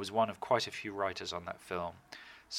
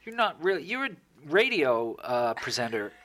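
imagined boss firing him; 5 semitones higher, 5 dB louder than usual. Pretend. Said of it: "waiting for someone to go".

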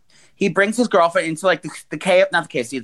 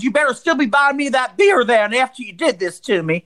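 put-on sassy girlfriend; 4 semitones higher than usual. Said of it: "She goes".

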